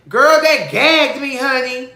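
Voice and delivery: high, loud, slow outburst; shocked excitement. Real, not acted. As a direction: exclaim it like you're floored. Shocked by baby daddy.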